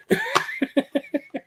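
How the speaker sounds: real laugh, pitched high; high burst of laughter. Real, not acted. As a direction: break into a squeaky laugh. Laughs at his own story.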